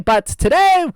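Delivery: lightly voiced old-time radio host; old-fashioned announcer voice; old-timey voice. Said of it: "keep up this old-timey voice".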